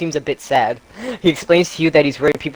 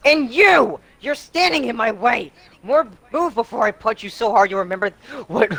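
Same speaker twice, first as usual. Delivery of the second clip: mock rage; 4 semitones higher than usual. Damien raging, voiced figure.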